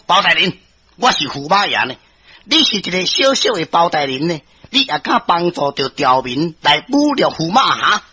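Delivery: mildly angry, pulling rank; angry nobleman. Acted. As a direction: put the lowly judge in his place. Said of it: "驸马伊生气啊". (駙馬小可受氣質問)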